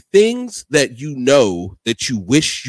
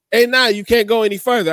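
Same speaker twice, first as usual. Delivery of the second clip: put-on New York accent; 8 semitones higher, 4 dB louder than usual. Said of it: "your New York accent".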